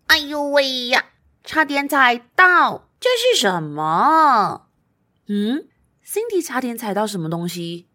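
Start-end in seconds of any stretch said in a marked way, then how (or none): 0.1-4.7 high startled cry, slowing down. Acted. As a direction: jump back, surprised. Nearly steps on something.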